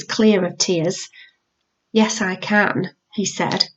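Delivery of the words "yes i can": smug calm. Acted. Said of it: "He smiled up at her".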